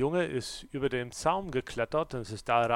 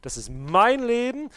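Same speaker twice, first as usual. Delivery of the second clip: louder, higher snarling order; roaring gorilla; 8 semitones higher, 9 dB louder than usual. Acted. Gorilla behind glass roaring demands at you, loud. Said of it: "brüllt und zeigt die Zähne".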